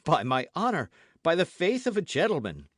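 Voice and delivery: emphatic pledge, rising in pitch and force; truthful oath. A narrator's reading. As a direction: swear it earnestly as a gentleman. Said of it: "with an accent so truthful".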